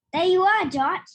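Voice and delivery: loud happy greeting; friend calling out. A narrator's reading. Friend arriving and spotting George, loud and glad. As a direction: call out to a friend you've found. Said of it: "he said".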